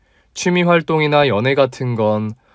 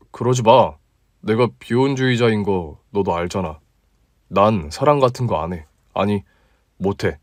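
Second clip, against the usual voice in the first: a touch lower, relaxed guy talking to a friend; easygoing male colleague, slightly deeper; 4 semitones lower than usual. Acted. Male lead replying. (조금 낮고 편안한 남자 목소리)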